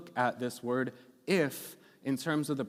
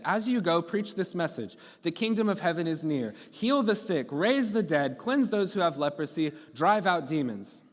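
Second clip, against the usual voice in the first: raised, declaiming scripture voice; scripture reading; 3 semitones higher than usual. Acted. Pastor reads Jesus's words to the congregation, lifted reading. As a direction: proclaim the verses a bit higher.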